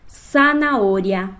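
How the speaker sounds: Zanahoria slow with a single tapped R; soft R. Shown as a demonstration. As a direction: tap the R of Zanahoria lightly, slowly. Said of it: "E agora com o R fraco".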